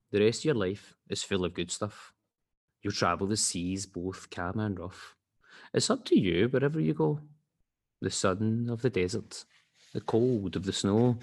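measured storybook rhyme with pauses; children's story reading. Acted. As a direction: read it to a child, line by line. Reads children's story aloud.

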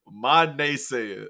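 mock shout. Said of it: "Alvin Kamara posted".

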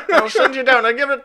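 put-on high, laughing old-timey gent; a hammy old-fashioned storyteller. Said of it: "Any chance we get to do old-timey voice".

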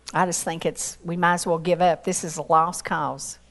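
low, subdued voice of giving up; resigned. Acted. Voicing people giving up on someone.

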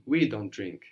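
"We" prominent, then falling away; emphasize "We" over the rest; stress on WE. Shown as a demonstration. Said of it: "Emphasizing the word for we".

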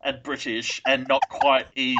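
hammed-up posh English accent, slow at the end; mocking a fancy British co-host in an English accent. Co-host parodies her British partner in a mock English accent. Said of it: "I love your English accent".

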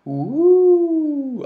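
sarcastic cheer. Acted.

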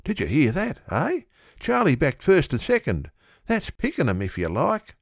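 high, amazed boasting to the others; astonished friend. A narrator's reading. Comrade astonished that Charlie backed first and second, high. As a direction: marvel at the oracle's luck. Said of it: "His comrades gasp with astonishment".

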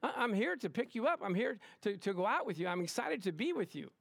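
eager suitor, mildly hammed up; lively, bouncing pitch at first, then easing; acted excited date. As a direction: play someone keen to go out. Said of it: "you're supposed to be excited".

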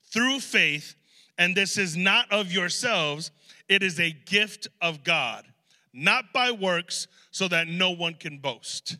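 slow, deliberate reading of the verse; sermon scripture read, unhurried. Acted. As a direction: read it slowly, weighing each phrase.

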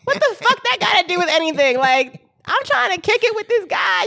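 high, loud, laughing outrage; laughing exasperation. Real, not acted. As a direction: laugh through the disbelief.

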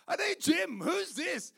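loud, high, frantic demand; panicked shout. Retold or imitated. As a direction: yell it in alarm. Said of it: "and I'm like".

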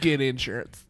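whispered ad tag line. Pretend. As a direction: breathe it like a secret.

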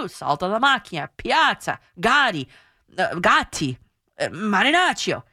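each name apart: "Piazza" as pee-AHT-sa, "Gatti" as GAH-tee; Italian pronunciation. Shown as a demonstration. Teacher proving listeners say names in Italian, deliberate Italian pronunciation. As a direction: list "Saltalamacchia" to "Marinaccio" with Italian sounds. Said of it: "You say them in Italian too".

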